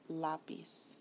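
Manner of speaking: LÁ stressed in lápiz. Shown as a demonstration. Teacher explains the broken rule, lápiz slowly stressed on LÁ. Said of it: "it's actually on the A".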